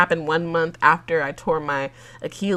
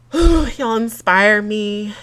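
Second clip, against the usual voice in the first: heartfelt sigh; 5 dB louder, slower than usual. Real, not acted.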